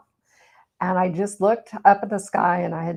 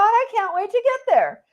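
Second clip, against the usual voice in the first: mock sarcasm; 13 semitones higher than usual. Sarcastic reply to friend.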